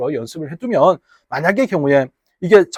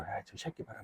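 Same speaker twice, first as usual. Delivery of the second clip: muttered inner grumble; 10 semitones lower, 23 dB quieter than usual. Retold or imitated. Inner thought of Gyeongsang men.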